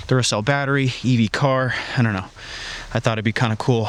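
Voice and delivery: breathing hard from the cold; slightly winded in freezing air. Real, not acted. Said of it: "Sorry if I'm breathing a little hard".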